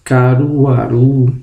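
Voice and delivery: slow "caruaru" with a long final "ru"; "caruaru" as a careful stress example; stress on last syllable. Shown as a demonstration. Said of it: "a última sílaba vai ser a sílaba tônica".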